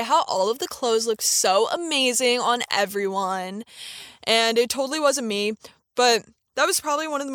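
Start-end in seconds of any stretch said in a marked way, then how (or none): 0.0-3.6 vocal fry retail chatter. Shown as a demonstration. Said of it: "kinda like this".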